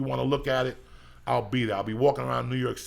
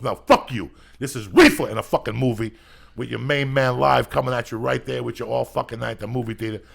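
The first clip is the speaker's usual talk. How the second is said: much louder, punching every word; loud hype; 11 dB louder than usual. Acted. Comedian loudly hypes a movie night for his listeners. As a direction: pump up the crowd.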